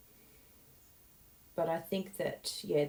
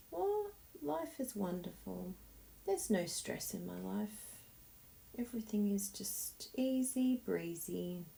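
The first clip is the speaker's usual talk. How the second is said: dreamy calm; 3 semitones higher, 5 dB quieter than usual. Retold or imitated. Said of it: "Now I'm like".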